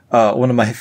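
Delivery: ordinary talk, nothing marked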